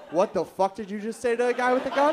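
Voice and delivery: loud, high-pitched disbelief; incredulous outburst. Retold or imitated. To his friend refusing an armed robber, incredulous outburst. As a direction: shout it in comic disbelief at a friend.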